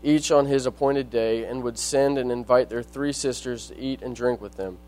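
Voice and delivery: measured reading of Bible verses; scripture reading. Acted. Reads scripture aloud.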